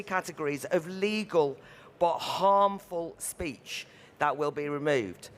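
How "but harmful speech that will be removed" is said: harmful leaned on, the phrase slowed right down; slow down and weigh the word harmful; emphasis on harmful. Real, not acted. Panelist warning the audience about the bill, stressing harmful. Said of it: "And I emphasise the word harmful".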